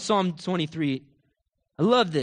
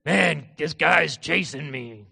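slow, drawn-out put-on moan; mock complaint; 4 dB louder, much slower than usual. What hunted David would not say, mock complaint. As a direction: drag it out like someone feeling sorry for himself. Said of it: "He wouldn't say that over his life".

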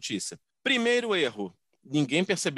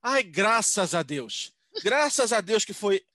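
relieved thanks; 3 semitones higher, much slower than usual. Retold or imitated. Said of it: "Minha mãe".

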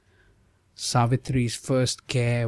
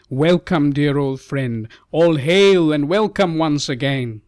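joyful hail; 3 semitones higher, 5 dB louder than usual. Acted. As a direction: hail him out with joy, louder. King greets old friend.

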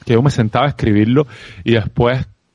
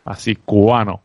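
Cuban accent; 2 semitones lower than usual. Shown as a demonstration. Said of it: "seguir sonando con mi sello cubano".

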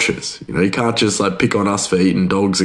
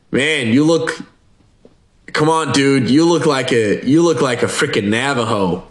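higher-pitched imitation of an insistent dude; mock insistence; 4 semitones higher than usual. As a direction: act out a buddy pressing his point. Retold coworker insisting on his look.

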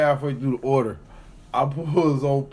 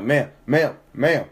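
calling out; 5 dB louder, slower than usual. Retold or imitated. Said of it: "I'm like".

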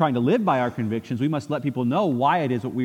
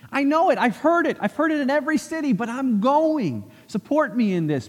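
high, urgent insistence; Paul pleads with friends, high and determined; impassioned resolve; 5 semitones higher than usual. Retold or imitated. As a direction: plead for support but refuse to back down. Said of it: "Paul is saying".

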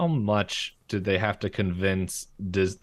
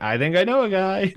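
Bill voice; 11 semitones higher, 5 dB louder than usual. Retold or imitated. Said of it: "and Bill's like".

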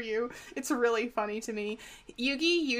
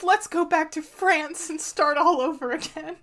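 put-on slow, high-pitched, louder French accent; 6 semitones higher, 6 dB louder than usual. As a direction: ham up a French accent for the line. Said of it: "Just in case you forgot that he's French".

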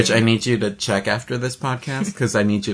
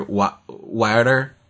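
water said as wudder, Philly accent; Philly "water" with a dark wood-er vowel; 4 semitones lower, 5 dB quieter, much slower than usual. Shown as a demonstration. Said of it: "like when people pronounce water".

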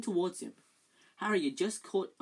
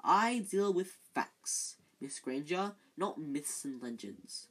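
slow, lightly voiced old ghost teacher; a hint of a dry, wheezy old professor; slower than usual. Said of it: "in his dry, wheezy voice".

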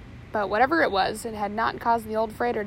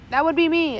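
thundered reply; 5 semitones higher, 7 dB louder than usual. A narrator's reading. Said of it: "a deep voice thundered back".

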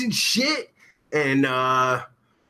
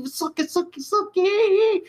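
very high silly squeal, climbing; squealed catchphrase; 13 semitones higher than usual. Pretend. Streamer hailing a viewer, squealed catchphrase. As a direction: squeal it higher on the last word.

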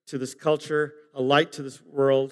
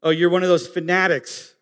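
mocking tease. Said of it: "we used to say that".

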